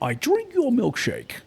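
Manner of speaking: Daniel Day-Lewis impression. Quoting the film to a friend who loves the actor, slow mock villain. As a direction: drawl it out like the oilman. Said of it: "anything Daniel Day-Lewis is in".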